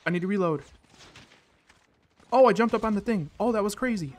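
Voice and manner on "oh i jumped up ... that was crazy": high, loud burst of astonishment; thrilled gamer outburst; excited amazement. Real, not acted. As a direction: marvel at your own lucky move. Amazed at own move in game.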